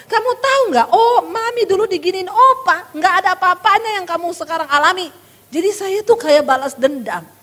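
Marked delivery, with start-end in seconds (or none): 0.1-5.1 retold scolding mother. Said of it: "sambil saya ngomong".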